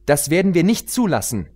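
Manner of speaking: put-on high, eager young pony voice; pony heroine. Pony heroine questioning the queen, high and urgent.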